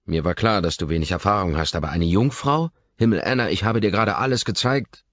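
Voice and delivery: loud, commanding snap; snapping at her. A narrator's reading. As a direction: bark it at her, angry and high. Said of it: "herrsche ich sie an".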